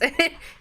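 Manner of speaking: ogre chuckle. Acted. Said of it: "he kinda laughs and goes".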